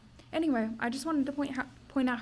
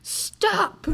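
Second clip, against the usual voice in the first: sudden high, louder yelled stop; acted yell; 10 semitones higher, 6 dB louder than usual. Book reader acting Sophie's outburst at her own thoughts, yelling. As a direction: blurt it out loud, high-pitched. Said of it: "just Sophie yelling".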